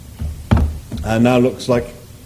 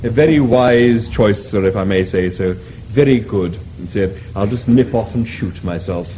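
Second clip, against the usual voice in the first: lower, lightly voiced obliging beast; courteous cow; 4 semitones lower than usual. The animal reassures Arthur, lower and courteous. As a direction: reassure the diner politely.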